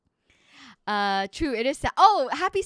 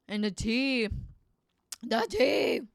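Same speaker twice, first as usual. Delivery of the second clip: chewing while talking; much slower than usual. Real, not acted. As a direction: mouth full of boba. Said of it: "Sorry, I'm chewing on the boba".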